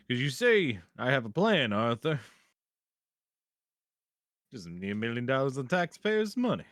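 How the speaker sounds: Western voice. Pretend. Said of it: "do your Western".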